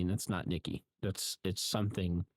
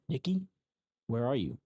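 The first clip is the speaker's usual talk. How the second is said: higher-pitched mock call for someone; retold calling out; 4 semitones higher than usual. Bear looking around the room for Nikki, retold calling out. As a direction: call out lightly, pitched up at first.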